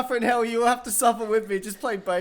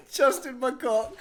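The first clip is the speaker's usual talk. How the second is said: laughing; slower than usual. Real, not acted. Repeating name through laughter.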